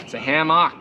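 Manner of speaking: Minnesota accent on hammock; Midwest accent. Shown as a demonstration. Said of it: "I'm getting on my Midwest, uh, accent here".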